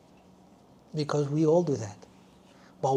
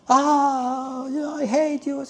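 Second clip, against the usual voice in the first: higher, mock-furious mother's outburst; imitating angry mom; 10 semitones higher, slower than usual. Teacher retelling mom lashing out at her sister, higher mock outburst. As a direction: throw it out like mom venting rage.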